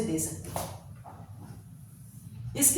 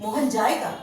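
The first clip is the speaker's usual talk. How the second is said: मोहन जाएगा asked with जाएगा pushed; questioning stress on जाएगा; 3 dB louder than usual. Shown as a demonstration. Teacher showing how stressing जाएगा makes a question. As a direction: force on जाएगा, rising like a question. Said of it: "जाएगा पर ज्यादा हमारा force हो जाता है".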